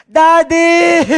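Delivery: put-on high, loud child's cry of Daddy; excited child shouting for dad; child calling daddy. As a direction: call out like an excited kid.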